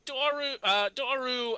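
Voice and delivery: high-pitched shout of a name. Acted. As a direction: cry the name out, high and drawn out. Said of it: "he begins shouting".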